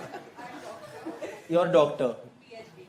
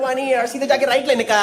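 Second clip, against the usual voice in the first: put-on teasing Mumbai-accent directions; 3 semitones higher than usual. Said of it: "Mumbai वाले accent को".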